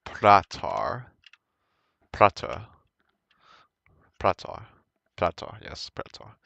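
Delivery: "pratar" repeated with a rolled Swedish r; Swedish word. Shown as a demonstration. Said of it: "You can also use".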